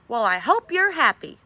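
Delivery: loud, slow bitter accusation; angrily. A narrator's reading. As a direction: spit it at him, hurt and angry. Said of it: "she said angrily".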